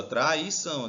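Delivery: Traição divided as tra, i, ção; Traição in distinct teaching beats; syllable by syllable. Shown as a demonstration. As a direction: separate each syllable of Traição. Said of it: "pra separar as sílabas".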